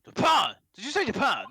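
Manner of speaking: a surly warden shocked by the word; rough governor voice. Acted. Governor reacting to the Japanese visitor, gruff rough voice. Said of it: "you make his voice so rough".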